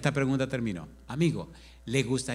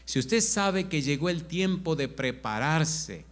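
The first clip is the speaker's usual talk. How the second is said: slow, louder preaching appeal; altar call; 3 dB louder, slower than usual. Acted. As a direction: draw them forward slowly and earnestly.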